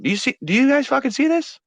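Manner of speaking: loud, high shout across the distance; excited shout from afar; calling out. Acted. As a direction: yell to the far-off party.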